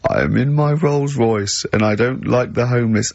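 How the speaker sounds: lightly voiced posh bloke, slow; a hint of an uncaring toff, drawn out slowly. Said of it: "a posh bloke who doesn't care about poor people".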